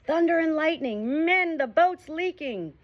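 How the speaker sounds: high, loud, slow alarmed bellow; pirate captain bellowing to his crew that the boat leaks. A narrator's reading. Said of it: "suddenly bellowed out".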